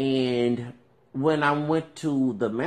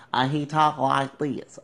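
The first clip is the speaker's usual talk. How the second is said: put-on Southern accent; slower than usual. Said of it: "born here with a Southern accent".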